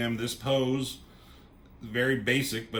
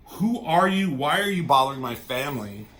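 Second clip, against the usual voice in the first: raised, louder mock confrontation; indignant demand; 3 semitones higher, 5 dB louder than usual. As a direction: challenge them like an affronted father, acted out. Acting out Magneto confronting intruders.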